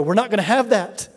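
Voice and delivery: a father standing up for his wife; firm dad. Retold or imitated. Dad rebuking sons for rude tone to Mom, firm and rising. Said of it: "stand up and go".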